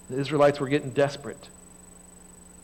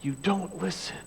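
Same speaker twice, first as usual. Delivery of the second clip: gentle rebuke; 5 semitones higher, 3 dB quieter than usual. Retold or imitated. God gently correcting his children, softened. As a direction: let You don't listen land as a tender rebuke. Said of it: "God's love and grace".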